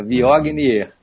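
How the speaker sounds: Viognier read letter by letter, hard g; wrong pronunciation. Shown as a demonstration. Expert shows the trap, Viognier by spelling. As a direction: repeat Viognier as "vi-og-ni-er". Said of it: "É Viognier".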